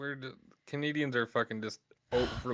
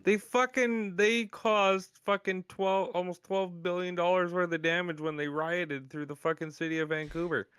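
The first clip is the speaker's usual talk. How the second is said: raised pitch, incredulous sports-riot rant; worked-up rant; 6 semitones higher than usual. Real, not acted. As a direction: tell it in high-pitched outrage. Worked-up rant about hockey riot.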